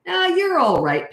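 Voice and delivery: lilting, slow and high, gently; calm the child with a light sing-song; slow high soothing "you're all right"; soothing high reassurance. Shown as a demonstration. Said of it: "just say".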